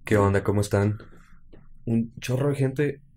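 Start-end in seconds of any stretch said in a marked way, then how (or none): 1.8-3.0 susurro asombrado. Real, not acted. Asombro ante tanta gente.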